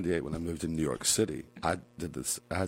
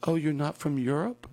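high-pitched mock surprise; incredulous question, acted out; surprised stranger; 11 semitones higher, 4 dB louder than usual. Retold strangers, surprised, asking.

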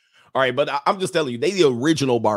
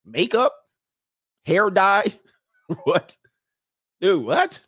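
high-pitched incredulous questions, broken by pauses; mock disbelief; 7 semitones higher, 4 dB louder, slower than usual. Imitating older European women scoffing at beauty products, mock disbelief. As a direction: act baffled by each item, pitching up sharply. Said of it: "they like".

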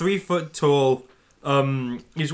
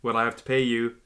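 Ned's voice; 4 dB quieter than usual. Acted. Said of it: "In that voice".

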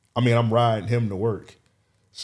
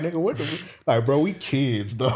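stunned disbelief; 4 semitones higher than usual. Retold or imitated. Stunned retold reaction.

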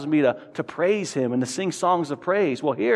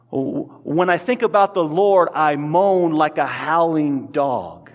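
howling lament; slower than usual. Shown as a demonstration. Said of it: "described as a howling dog".

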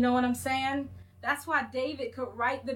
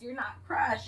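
whispered emphasis. Real, not acted. Preaching point lands.

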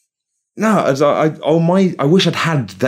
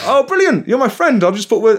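mock sarcastic delight; 12 semitones higher than usual. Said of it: "And I was like".

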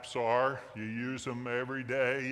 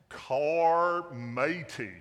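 slow, louder pirate drawl on "Carmatey", the r rolled out long; drawn-out pirate name; 3 semitones higher, 6 dB louder, much slower than usual. Pretend. Pastor announcing the parking app to the church in a pirate accent. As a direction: stretch out "Carmatey" like a pirate calling his mate. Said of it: "in a pirate accent".

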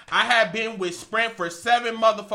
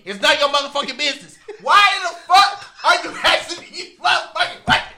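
retold angry retort; 5 semitones higher, 5 dB louder than usual. Retelling snapping at the rep.

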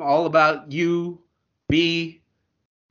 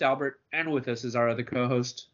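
usual speaking voice

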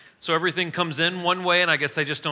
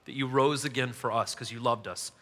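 earnest prayer. Acted. Pastor praying over the congregation before the lesson, heartfelt prayer voice. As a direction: pour it out to God, earnestly.

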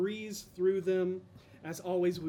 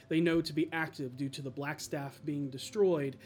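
story recap narration. A narrator's reading. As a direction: set the scene like a game master.

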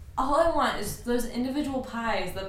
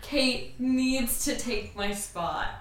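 slow, deliberate pronouncement; retold decree; much slower than usual. Telling friends what she once declared, slow and deliberate. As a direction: lay it down slowly like a rule. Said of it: "I said".

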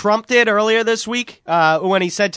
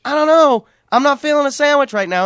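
higher, louder mock braggart; boastful Valentine; 5 semitones higher, 3 dB louder than usual. Man playing Valentine bragging about inventing the wrap, hammed-up boast. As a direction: play the self-satisfied inventor.

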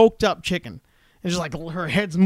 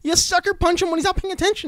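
joking suggestion; 12 semitones higher than usual. Acted. Joking advice to friend.

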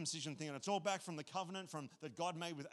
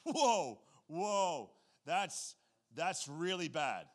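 imitating alarmed Paul; 6 dB louder, much slower than usual. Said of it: "Paul's like".

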